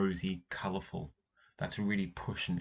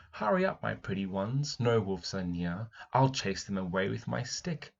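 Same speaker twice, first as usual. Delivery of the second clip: put-on girl calling goats. Teacher voicing the girl calling her goats. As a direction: call the goats in gently. Reads girl's call to goats.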